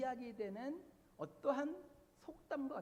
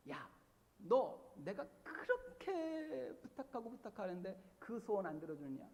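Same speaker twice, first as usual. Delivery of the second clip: mock threat; 3 semitones lower than usual. Preacher acting out a believer threatening his friend, mild mock threat. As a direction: lean on him like a light threat. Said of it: "협박을 하죠".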